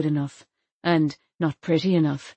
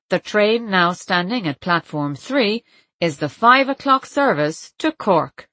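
slow station announcer voice; slow, even platform announcement; robotic announcement; 4 dB louder, slower than usual. Retold or imitated. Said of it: "The robotic voice saying".

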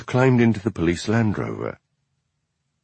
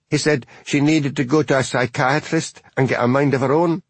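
higher, indignant busybody voice; scandalised spinster; 5 semitones higher than usual. Acted. Twin reporting the insult to the constable, high and indignant. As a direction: tell it as a juicy outrage.

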